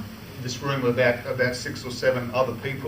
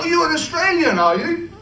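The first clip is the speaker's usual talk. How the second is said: high, louder lilting imitation of the Queen; 5 dB louder than usual. The Queen surprised to meet an Australian employee, high imitation. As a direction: lift into a genteel royal voice, higher.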